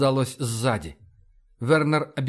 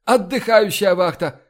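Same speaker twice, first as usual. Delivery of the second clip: loud, higher command call; shouted order; 5 semitones higher, 6 dB louder than usual. A narrator's reading. Fox calling out to the resting watch, shouted order. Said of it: "поддержал её Фокс".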